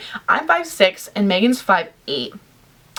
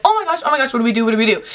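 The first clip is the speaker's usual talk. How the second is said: retold freak-out; 2 semitones higher, much faster than usual. Two friends spotting a celebrity outside, acted freak-out. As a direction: act out two friends panicking. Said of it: "So we're freaking out".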